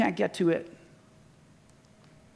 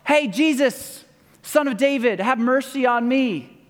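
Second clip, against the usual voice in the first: retold yelling; 4 semitones higher than usual. Blind man calling out to Jesus, mildly yelled. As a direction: imitate a man calling out for mercy. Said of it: "A man yelling out".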